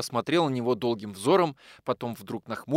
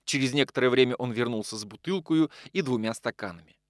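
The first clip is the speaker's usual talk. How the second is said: plain reading voice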